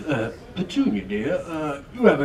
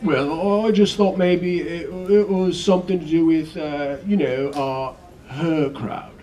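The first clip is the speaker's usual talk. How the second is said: hesitant, louder fumbling husband; nervous hedging; 4 semitones higher, 5 dB louder, slower than usual. Acted. Mister Dursley fumbling to explain to Petunia, nervous. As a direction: stumble through it anxiously.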